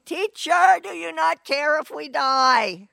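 high, urgent plea from frightened fishermen; panicked cry. Retold or imitated. Frightened disciples waking Jesus in the storm, crying out. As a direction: cry out like men sure they'll drown. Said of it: "they woke him up crying".

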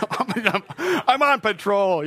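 loud, high, stubborn insistence; defiant husband. Retold or imitated. Stubborn husband refusing to come inside, loud and high. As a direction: dig in like a kid refusing.

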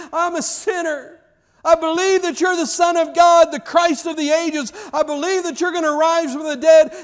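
very high, loud desperate cry of repentance. Retold or imitated. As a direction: cry out to Jesus from the foot of the cross. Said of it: "and then he cried out".

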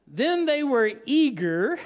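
slow words with a laugh breaking through; laughing while reading. Real, not acted. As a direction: chuckle your way through the line.

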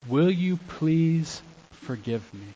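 slow, earnest plea for forgiveness; sincere apology. Shown as a demonstration. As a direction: ask slowly, meaning every word. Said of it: "But it doesn't take ownership".

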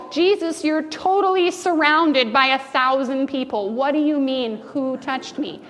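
exasperated disciple, mildly voiced; a hint of annoyed disbelief; eye-rolling Peter. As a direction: sound fed up with the obvious question. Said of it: "you can hear his eyes roll".

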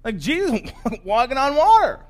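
high, drawn-out cry of astonishment; acted yelling. Disciples spotting Jesus out on the lake, yelling. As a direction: yell it to the others in the boat. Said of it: "they start to yell".

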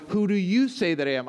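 you pressed hardest, falling after it; stress on you. Shown as a demonstration. Preacher voicing Jesus pressing his disciples, stress on you. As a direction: lean on the word you. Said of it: "It's also emphatic".

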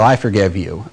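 quick offhand "I forgive you", dropped low and soft; casual brush-off. Shown as a demonstration. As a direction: toss it away like it costs nothing. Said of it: "we don't deny sin and say".

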